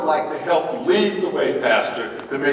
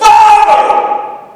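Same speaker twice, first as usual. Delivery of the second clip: very high, very loud hollering call; 13 dB louder than usual. Showing how someone falling from a tree calls out: hollering for father. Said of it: "You holler for your father".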